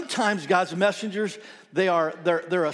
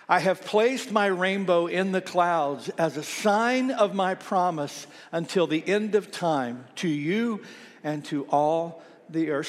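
slow, measured congregational reading; scripture reading; slower than usual. Real, not acted. Pastor leading church in reading Genesis nine, measured recitation. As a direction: read it out slowly for everyone to join in.

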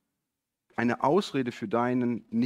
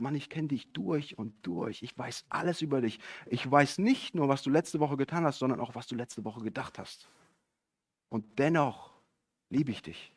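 softer voice with deliberate pauses; tender reassurance; 4 dB quieter than usual. Retold or imitated. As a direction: speak gently and intimately, voicing a loving Lord. Voicing Jesus's loving words to listener.

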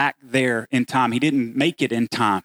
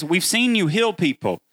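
raised, pleading voice of a grieving sister; lightly voiced Martha, higher and urgent; 4 semitones higher than usual. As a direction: press Jesus with hurt and disbelief. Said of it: "what Martha is saying is".

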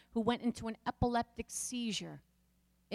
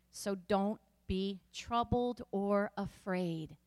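slow, measured scripture voice; scripture reading; 2 semitones lower, slower than usual. Acted. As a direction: read the verse gently and slowly. Reads scripture slowly.

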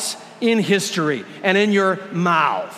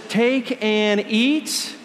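voicing Jesus; 5 semitones higher, slower than usual. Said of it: "he looks at the disciples and he regularly looks at you and he says".

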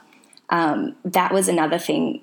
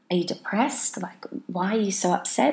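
put-on puzzled boyfriend; 3 semitones higher than usual. Boyfriend asking her about her crying, puzzled. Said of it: "he didn't understand it. He was just like".

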